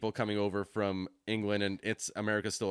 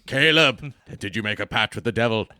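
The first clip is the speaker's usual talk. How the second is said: accusing shout; 10 dB louder than usual. Pretend. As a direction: roar the accusation at him. Reenacted film scene, accusing shout.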